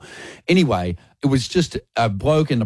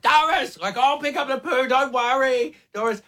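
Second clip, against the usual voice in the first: high, raised, over-clear reassurance; raised voice for deaf lady; 13 semitones higher than usual. Retold or imitated. Reassuring deaf elderly Doris, pitched high and raised. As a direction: make sure a deaf neighbour hears.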